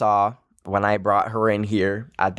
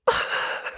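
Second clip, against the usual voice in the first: teary laugh; 4 dB quieter than usual. Real, not acted. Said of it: "Not me literally crying on a podcast".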